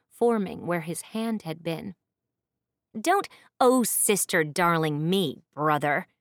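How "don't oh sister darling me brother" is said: loud, flinging his words back; snapped. Acted. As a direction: throw his phrase back at him. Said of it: "she snapped".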